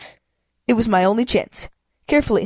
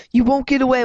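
shout; 4 semitones higher than usual. Acted. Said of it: "one shouted".

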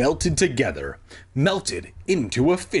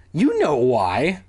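slow, mildly teasing; string it out to tease; playful, drawn-out taunt; teased; 3 dB louder, slower than usual. Acted. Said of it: "I teased".

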